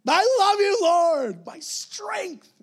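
high loud shout of love; the psalmist proclaiming love to the Lord, shouting; psalmist going for it. Shown as a demonstration. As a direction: cry it out to the Lord. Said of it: "They're just going for it".

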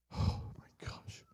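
soft, slow whisper; hushed, overwhelmed aside; awed whisper. Real, not acted. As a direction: whisper it in awe. Awed reaction to the verse.

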